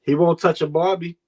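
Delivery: put-on light Boston accent, Barbie as Bahbie. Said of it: "I said it in the Boston accent".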